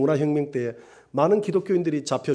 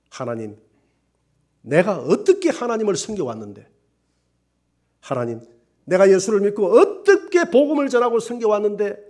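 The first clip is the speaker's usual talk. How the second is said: wailing lament; 4 semitones higher, 4 dB louder than usual. Retold or imitated. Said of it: "하면서 땅바닥에서 통곡을 하고 울었다고".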